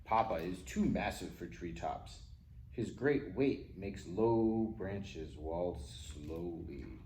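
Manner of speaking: plain reading voice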